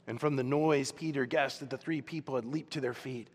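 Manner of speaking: normal talking voice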